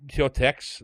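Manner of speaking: "Quixotex" with a hard X ending; joke plural. Pretend. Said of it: "'cause it's plural".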